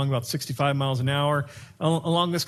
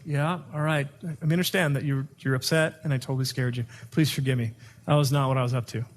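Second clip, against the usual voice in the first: apologizing. Shown as a demonstration. Husband apologizing.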